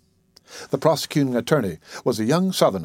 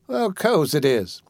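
put-on higher old woman's voice, scolding fondly; chiding old auntie; 4 semitones higher, slower than usual. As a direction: tease him like the child you raised. Dicey answers.

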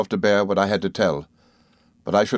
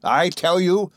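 furious accusation; 10 semitones higher, slower than usual. Acted. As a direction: hurl it at the mother like a curse. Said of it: "she returned".

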